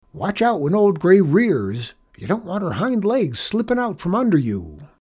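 high, lively riding-coach voice; cowboy janitor, coaching. A narrator's reading. Janitor giving riding tips to the boy, coaching.

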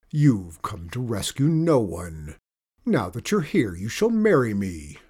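a pompous sorcerer gloating; evil enchanter. Acted. Enchanter voiced.

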